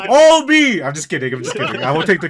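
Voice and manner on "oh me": loud, high, laughing mock boast; mock bragging. Fan pretending to take credit, laughing. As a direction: playfully crow through a laugh.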